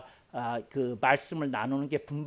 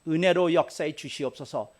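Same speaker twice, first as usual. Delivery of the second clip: fervent prayer; 5 semitones higher, 4 dB louder than usual. Shown as a demonstration. Pastor modelling a prayer for an enemy, high and pleading. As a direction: pray earnestly for the other person. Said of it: "하고 네가 기도해야 되는 것".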